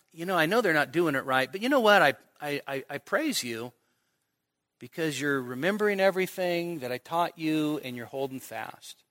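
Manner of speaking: gentle acted commendation; sincere praise. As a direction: concede the faults, then quietly mean the praise. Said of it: "And maybe Paul is saying".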